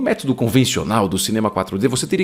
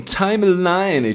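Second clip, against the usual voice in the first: slow, drawn-out English word in an American accent; 6 semitones higher, much slower than usual. Shown as a demonstration. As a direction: say timeline like an American. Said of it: "tipo com sotaque americano". (sotaque americano arrastado)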